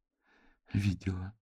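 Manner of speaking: quiet reluctant admission; quietly. A narrator's reading. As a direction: admit it under the breath. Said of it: "тихо сказала она".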